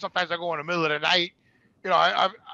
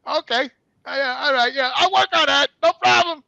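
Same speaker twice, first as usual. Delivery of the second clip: sarcastic; 7 semitones higher, 5 dB louder than usual. Real, not acted. Sarcastic reply with cry.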